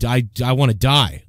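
mild mock despondency; a hint of a listless man wishing for death; Opie impression. Mocking how Opie sounds on the radio, listless despair. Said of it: "He just sounds like".

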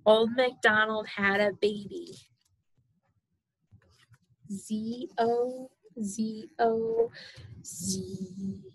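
sing-song storybook reading; reading to a toddler. Acted. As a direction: read it bouncy for a baby. Sing-song reading, snoring end.

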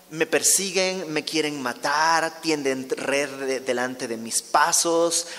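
slow, drawn-out acted complaint; mildly frustrated psalmist's plea; frustrated lament. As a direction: list your troubles slowly to God. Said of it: "un poco frustrado".

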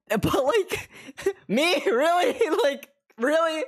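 high, laughing disbelief; me, really? laugh it off in disbelief; giggly high-pitched incredulity; incredulous laugh. Real, not acted. Mock disbelief at comfort streamer.

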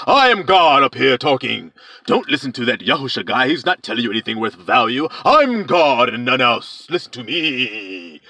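lightly voiced boastful dragon, slowing at the end; a hint of a proud deceiver. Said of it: "talking with great blasphemies".

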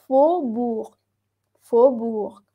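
"Faubourg" with AU sounded as one O. Shown as a demonstration. Teacher repeats the word after explaining A O, AU as O. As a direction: say "Faubourg" with the first vowel as O. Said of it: "tú la pronuncias como una O".

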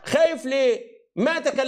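heated protest over crosstalk. Real, not acted. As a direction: push through the interruption.

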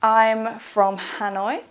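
slow, clear full answer; slow model answer. Shown as a demonstration. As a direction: say it slowly as a model. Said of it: "You could say".

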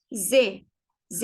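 "Z" as voiced ze, long e; German pronunciation demo. Shown as a demonstration. Teacher reads initial S, "Z" voiced. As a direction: say "Z" like buzzing zee with an e vowel. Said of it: "Z harfi diye okunuyor".

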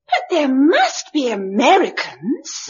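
cling to hope as tears come; near tears. Acted. Frightened girl insists to the men, close to crying. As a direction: voice catching on a sob, pleading.

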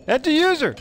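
high excited exclamation; surprised. Real, not acted. Streamer adding another birthday viewer, surprised. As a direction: pipe up, delighted by the news.

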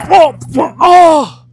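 startled cry mid-fall; tripping and falling. Real, not acted. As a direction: yelp while slipping down. Slips on wet grass falling.

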